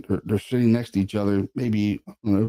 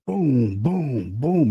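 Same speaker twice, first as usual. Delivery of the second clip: three booming thuds, last one higher; imitated table banging; 3 semitones higher, much slower than usual. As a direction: mimic pounding on a table. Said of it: "pretty loud, you know".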